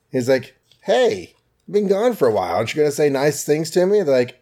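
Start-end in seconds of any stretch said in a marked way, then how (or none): 0.8-4.0 higher, perky hero greeting; Iron Man voiced. Host voicing Iron Man greeting Pepper and Happy, higher and perky. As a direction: lightly play the returning hero fishing for praise.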